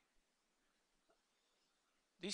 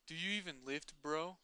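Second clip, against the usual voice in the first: gym bro; 3 semitones higher than usual. Acted. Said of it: "That just makes me laugh".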